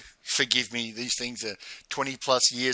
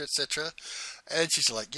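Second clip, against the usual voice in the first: ordinary delivery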